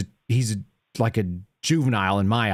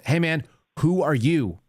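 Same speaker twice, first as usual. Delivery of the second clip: annoyed challenge; 4 semitones higher than usual. Retold or imitated. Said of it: "I was really pissed".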